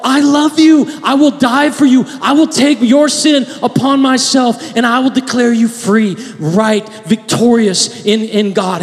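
loud, high impassioned declaration; fervent voice of Jesus; voicing Jesus, declaring. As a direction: proclaim it as Christ's vow. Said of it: "he made a statement once and for all".

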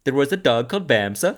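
high, hammed-up Norwegian lilt; bad Norwegian accent. Shown as a demonstration. Podcaster showing off his best Norwegian accent on request, bad Norwegian accent. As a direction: put on a poor Norwegian accent for laughs. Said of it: "Do it in your no-, best Norwegian accent".

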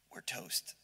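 low, soft doomed murmur; sinking despair. Acted. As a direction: say it like all hope just left. Gideon's heart sinks.

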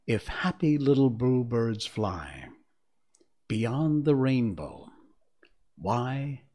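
slow, reflective spoken lyrics; poem recitation. Acted. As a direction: recite it line by line with long pauses, fading to a hush at the end. Recites song lyrics to close.

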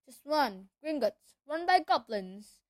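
big booming half-giant; rough country giant voice; gruff giant voice. Acted. Hagrid voice.

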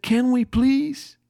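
put-on slow, sweet begging little girl; high and slow, batting your eyes; pleading child. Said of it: "my daughter batted her eyes at me and said".

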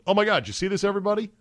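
high, eager call to everyone; excited retweet. Retold or imitated. Host showing his followers a find, high and eager. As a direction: share it like a big discovery.

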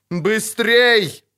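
urgent high cry; крик. A narrator's reading. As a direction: shout an urgent order to hurry. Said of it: "крикнул Доррегарай". (крикнуть, подгоняя)

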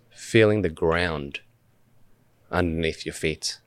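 unhurried meditation guide, long pauses between phrases; measured guided-meditation delivery with spacious silences. Acted. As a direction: lead listeners gently through breath awareness, phrase by phrase. Leads a meditation.

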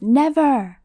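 Harry defying Voldemort; yell. Acted. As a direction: refuse with all your force. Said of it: "Harry yells".

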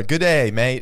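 hammy mock Australian greeting; amateur Australian impression; put-on Australian accent. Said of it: "Let's hear it".

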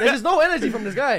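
laughing while teasing; giggling through the jab. Real, not acted.

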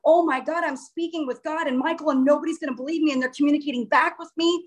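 retold freak-out. Telling viewers how speaking with God overwhelmed her, mildly freaking out. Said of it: "I started freaking out".

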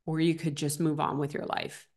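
soft, gentle quote of a husband's calm advice; loving advice. Retold or imitated. Chris lovingly tells his upset wife to move on, soft and gentle. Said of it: "so lovingly looked at me and said".

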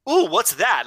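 perked-up, impressed curiosity, acted; intrigued wife. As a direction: imitate a wife suddenly taken with an accent. Imitates wife intrigued by accent.

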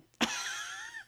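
soft, very high-pitched giggle; quiet squeaky laugh; high squealed laugh. Real, not acted. Excited reaction to reading her highlights.

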